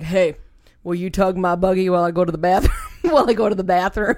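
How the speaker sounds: deep put-on man's voice. Recalling a stranger behind them in a grocery store asking a favor; imitating a guy's low voice. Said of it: "a low voice".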